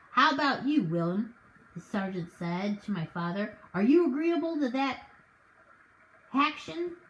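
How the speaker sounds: folksy officer smoothing things over; a touch of a country sergeant calming a quarrel; lightly voiced sergeant. Sergeant's character voice.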